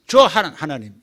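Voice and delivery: loud blunt order at God; rude demand to God. Retold or imitated. Believer rudely ordering God, blunt and loud. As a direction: bark at God like a brat. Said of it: "이런 식으로 하면 안 되지".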